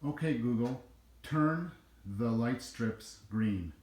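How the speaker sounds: slow deliberate command; repeating to voice assistant. Real, not acted. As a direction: spell it out slowly for the device. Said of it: "the way I'm saying it".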